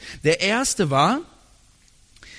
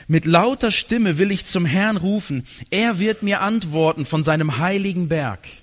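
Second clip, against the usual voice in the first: 1 raised reading; 2 semitones higher, 4 dB louder than usual. Shown as a demonstration. Quotes cry with loud voice.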